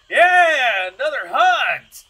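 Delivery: high, full-voiced whoop; loud, rowdy group cheer; cheering crowd. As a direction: holler it like celebrating hunters. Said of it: "they're all like".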